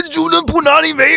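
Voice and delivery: very high, loud put-on squeal; mock school taunt. Host imitates classmates jeering the rhyming nickname, high mock shriek.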